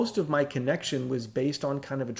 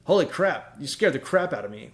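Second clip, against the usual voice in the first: startled anxious. Retold or imitated. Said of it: "when she comes in the room and I'm anxious".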